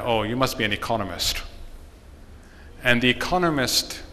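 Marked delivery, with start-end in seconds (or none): 0.0-1.4 mildly dismissive joke voice. Retold or imitated. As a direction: brush the stranger off, lightly. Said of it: "says in a very dismissive manner".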